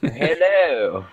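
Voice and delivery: hint of a toff saying hello; posh hello. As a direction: greet like a mild stuffy aristocrat. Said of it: "the posh voice".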